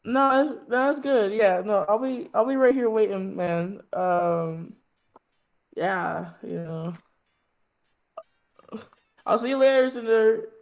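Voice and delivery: eager Minotaur. Acted. Minotaur left by Cinder.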